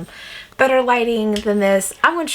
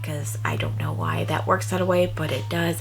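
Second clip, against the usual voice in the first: whispering; 3 semitones lower, 5 dB quieter than usual. Real, not acted. Aside about the cold room.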